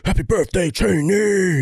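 excited cheer. Pretend. Epic shout out, high excited.

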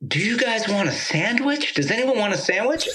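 lightly voiced friendly Texan host; Ornette's hospitable voice. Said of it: "Southern hospitality".

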